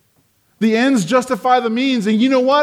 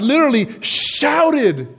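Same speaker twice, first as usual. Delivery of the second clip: SHOUTED stretched out, higher; emphatic; 5 semitones higher, slower than usual. Real, not acted. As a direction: lift and draw out the word shouted. Preacher stresses the verb.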